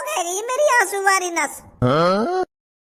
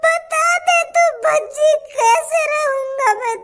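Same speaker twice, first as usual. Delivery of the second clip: fake crying. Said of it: "काय को नाटक कर रहा तू मेरे सामने रोने का".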